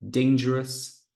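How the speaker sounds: DANgerous, first syllable stressed. Shown as a demonstration. Teacher showing word stress. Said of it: "that's one".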